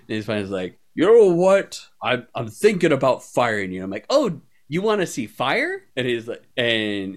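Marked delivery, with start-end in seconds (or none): 0.9-3.8 annoyed DM. Retold or imitated. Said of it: "super pissed off at me". 4.1-5.8 high, gleeful mock-innocent question; ditzy tease. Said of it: "acting super ditzy".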